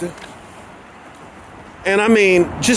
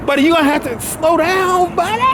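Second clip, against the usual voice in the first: higher, raised call to the dog; firm call after the dog; 10 semitones higher than usual. Real, not acted. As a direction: rein the dog in by calling. Calling the dog to slow.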